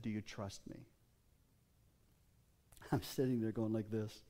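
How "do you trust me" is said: gentle shepherd's voice. Retold or imitated. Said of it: "gentle clarion shepherd's voice said".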